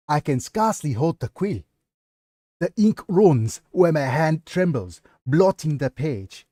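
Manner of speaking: put-on West African accent, halting over the trembling hand; a light Nigerian accent for the diary; attempted Nigerian accent. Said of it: "poorly, uh, done, uh, African accent".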